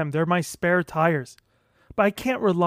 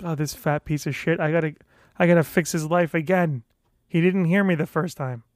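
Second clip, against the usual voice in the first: mocking doctor thought; 4 semitones lower than usual. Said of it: "He's like a fucking time traveler".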